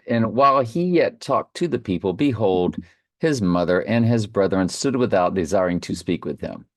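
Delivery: measured Bible reading voice; scripture reading. Acted. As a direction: read the verses with solemn weight. Reads scripture aloud.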